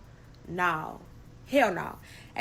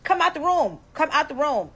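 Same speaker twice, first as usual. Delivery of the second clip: higher, louder pleading; begging; 5 semitones higher, 4 dB louder than usual. Retold or imitated. To the roommate behind the locked door, louder pleading. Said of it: "So I'm begging her".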